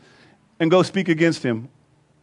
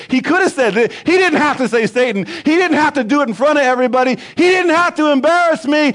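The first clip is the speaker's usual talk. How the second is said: aggrieved Peter; 6 semitones higher than usual. Retold or imitated. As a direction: whine each complaint, building up. Voices offended Peter's grievance.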